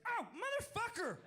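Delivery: high, slow, loud howl of pain; pained yell. Retold or imitated. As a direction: yell it as you slam your toes. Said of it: "he just goes".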